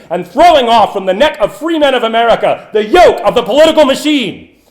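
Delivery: building to a loud, ringing call to arms; rousing oratory climax. Acted. Orator rallying the crowd against the machine, building loud. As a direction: swell the voice to a rallying peak.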